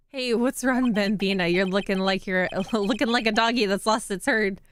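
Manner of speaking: lightly attempted cowboy accent; attempted Western accent. Reading the cowboy officer to Bambina, shaky attempt at Western accent. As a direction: try a half-hearted Western accent. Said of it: "a Western accent".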